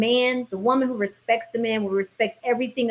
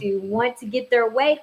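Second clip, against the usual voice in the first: ordinary talk, nothing marked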